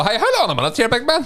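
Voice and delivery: high-pitched play-acted challenge; jokey affronted outburst; mock indignation. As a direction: pretend to square up to someone, pitched far up. Joking mock confrontation of the Turkish man.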